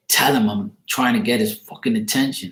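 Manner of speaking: a hint of an impatient father's voice; mildly mock the pushy ghost dad; lightly voiced ghost dad. Dead dad pressing the speaker to pass a message, lightly voiced. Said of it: "his dad was like".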